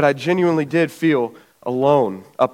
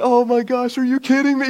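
mock dismay in a raised voice; exasperated brother; 9 semitones higher than usual. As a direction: imitate a brother's high-pitched disbelief. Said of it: "my brother's like".

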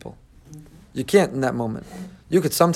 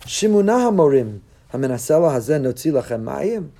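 angry rebuke. Retold or imitated. Moshe rebuking the rebellious people, angry. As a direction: scold the rebels sharply. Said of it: "out of anger said".

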